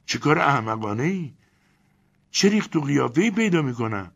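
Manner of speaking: very high, loud indignant woman's voice; outraged yelling. Acted. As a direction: Elena rants about entering the crocodile, outraged. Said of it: "داد و غار را انداخت".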